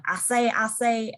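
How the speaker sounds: light attempt at a Louisiana accent; cartoon rooster with a mild Louisiana accent; Foghorn Leghorn. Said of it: "speaks with a Louisiana accent".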